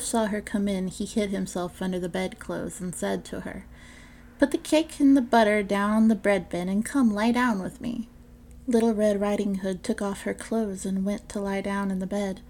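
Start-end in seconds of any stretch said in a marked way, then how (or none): 4.4-8.1 sly wolf coaxing. Acted. Wolf coaxes girl to bed.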